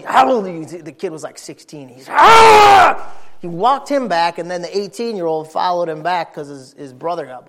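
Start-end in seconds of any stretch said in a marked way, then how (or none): 0.0-0.6 louder retold demand, stress on HOW; barked demand. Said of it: "When he got a hold of me". 2.1-3.1 sudden high loud yelp; shrill startled cry of a caught kid; startled scream. Retold or imitated.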